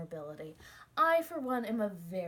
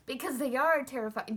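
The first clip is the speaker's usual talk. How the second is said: said through laughter; laughing; 3 semitones higher, 5 dB louder than usual. Real, not acted. Insisting to listeners potatoes are scary, laughing. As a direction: laugh while you say it.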